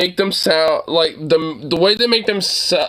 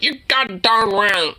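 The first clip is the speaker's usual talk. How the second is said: mock prissy version. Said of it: "pussy-footed, like".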